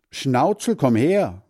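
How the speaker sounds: high loud call to the dog. Acted. Hans Frieder calling his dog back, loud. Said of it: "ruft Hans Frieder".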